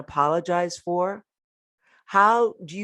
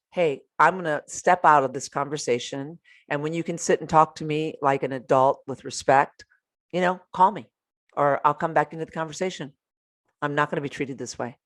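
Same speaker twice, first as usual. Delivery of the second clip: even, assured boundary-setting; measured and self-possessed; calm, controlled, confident. Shown as a demonstration. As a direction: hold your ground without raising your voice. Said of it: "It's calm, it's controlled".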